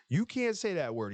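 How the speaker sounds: imitating the movie scold; movie character voice. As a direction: scold him in a put-on voice. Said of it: "he's like".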